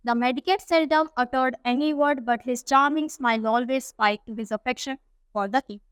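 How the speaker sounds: reads the English text slowly and carefully; unhurried storybook reading; slow story reading. A narrator's reading. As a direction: read it out word by word for the class. Slow English read-aloud of story.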